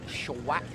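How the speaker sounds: Schwack said slowly as "shuh-wack" with a rising end; name pronounced. Shown as a demonstration. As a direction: spell out Schwack carefully, rising. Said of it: "is how it's pronounced".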